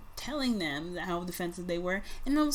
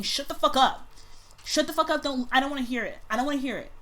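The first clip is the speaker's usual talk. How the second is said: mock snapping brain; 4 semitones higher, faster than usual. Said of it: "part of your brain that's saying".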